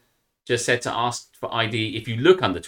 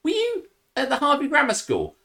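mock polite question; 13 semitones higher than usual. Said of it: "and say".

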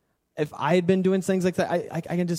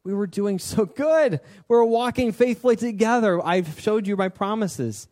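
disappointed; 4 semitones higher than usual. Acted. God to Israel after walking faithfully together, acted disappointment. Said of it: "He's disappointed".

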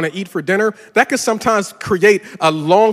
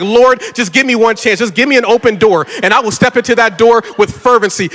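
mock prayer; 4 semitones higher, 4 dB louder than usual.

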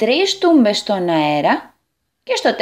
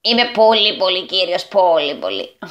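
preening, falling away through the repeats; proud; 2 semitones lower than usual. Acted. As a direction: admire yourself, stretching out the praise. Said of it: "είπε με καμάρι". (με καμάρι και αυταρέσκεια)

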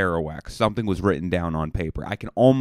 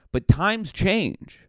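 mock grand; 11 semitones higher, much slower than usual. Mock dramatic aside.

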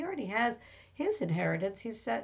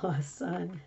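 usual speaking voice

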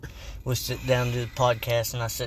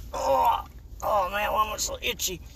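high-pitched whining jock voice; itchy jock; 8 semitones higher than usual. Acted. Host plays scratching jock in the cafeteria, itchy whine. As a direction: act out a jock in itchy misery. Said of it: "one of the jocks is just, like, down there scratching".

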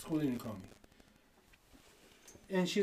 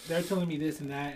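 ordinary delivery

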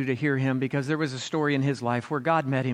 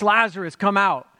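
a high, louder summons to the tomb; loud call; 6 semitones higher, 6 dB louder than usual. A narrator's reading. Pastor voicing Jesus calling Lazarus from the tomb, loud. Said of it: "Jesus called in a loud voice".

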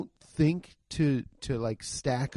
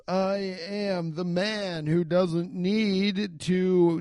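put-on Norwegian accent; 4 semitones higher, much slower than usual. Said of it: "starts talking in a Norwegian accent".

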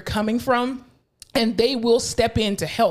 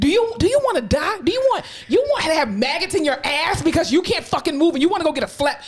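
mock yelling; 6 semitones higher than usual. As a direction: confront the patient hard. Scolding unmotivated patient.

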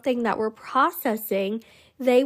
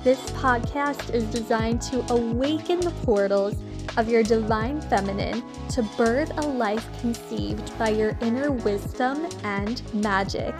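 podcast intro; faster than usual. Acted. Pre-recorded podcast intro over music.

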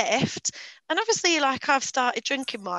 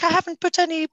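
put-on higher-pitched, botched Australian accent; failed Aussie accent; 7 semitones higher, 4 dB louder, faster than usual. Quoting the smoothie guy, badly faked Aussie accent. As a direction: have a bad go at Aussie. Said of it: "so I can't do that accent".

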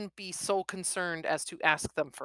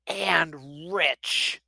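sulky. Acted. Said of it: "Sweeney adds in a sulky tone".

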